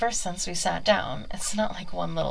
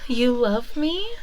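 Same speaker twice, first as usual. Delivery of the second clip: slow, louder, delighted question; touched surprise; 5 semitones higher, 6 dB louder, slower than usual. Acted. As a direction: melt at a confession. Witch touched by cat's confession.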